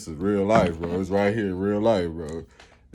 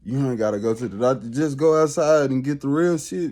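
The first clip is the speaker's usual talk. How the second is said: fast, rising, louder preaching quote; lightly voiced self-assured healer; voicing Dr Sebi's message; 4 semitones higher, 3 dB louder than usual. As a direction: rattle it off like a confident healer. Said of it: "his whole thing is coming like".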